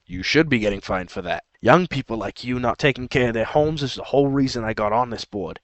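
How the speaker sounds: lightly voiced grumpy old board member with a faint mob accent; a touch of a New Jersey tough-guy accent; a hint of a mafia accent. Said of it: "I went into a, to an accent there".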